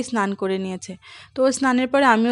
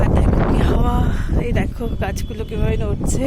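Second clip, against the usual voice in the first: loud, raised voice against gusts; shouting over wind; 6 dB louder than usual. Real, not acted. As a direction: call out over the wind noise. Filming outside in strong wind.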